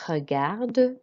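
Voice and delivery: "Regarde" ending in a clear D; French R, audible final D; sounded D. Shown as a demonstration. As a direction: finish "Regarde" on its D. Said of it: "we do pronounce the D".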